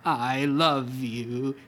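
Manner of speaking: slow, tender I love you. Acted. Dying husband to his wife, slow and tender. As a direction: say it slowly, full of love.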